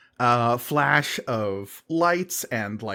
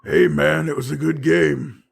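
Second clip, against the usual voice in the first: lightly voiced defensive loser, raised pitch; placating opponent; 5 semitones higher, 6 dB louder than usual. Beaten rival calming the gloating winner, placating. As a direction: back off, hands up. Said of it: "raises his hands and goes".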